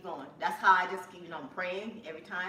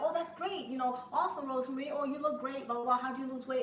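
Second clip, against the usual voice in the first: gushing commenter; 6 semitones higher than usual. Retold or imitated. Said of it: "some people are like".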